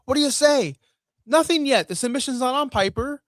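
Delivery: loud, high mock promo shout; mock Piper mic call. Host mimics Piper interrupting Bret, loud and high. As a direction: ham up Piper barking into the mic.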